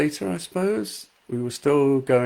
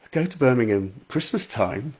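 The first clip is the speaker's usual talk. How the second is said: high "oh", lightly voiced Staffordshire local; Staffordshire landlady; 3 semitones higher than usual. Landlady remarking on trips to Birmingham, light Staffordshire accent. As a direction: imitate a Potteries landlady's accent. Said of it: "my landlady said".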